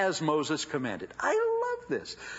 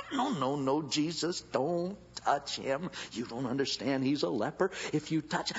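alarmed protest. Acted. Disciples protesting.

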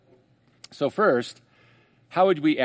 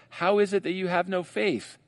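Jesus questioning; 5 semitones higher than usual. Retold or imitated. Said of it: "the second question is".

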